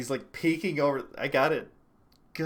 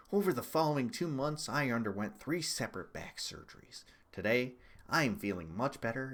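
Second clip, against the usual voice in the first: lightly voiced candidate reading his statement; Howard Schultz; 2 semitones lower, 5 dB quieter than usual. Streamer reading a dropout statement, light impression of the candidate. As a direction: read it out like a formal campaign announcement. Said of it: "Do the Howard Schultz voice".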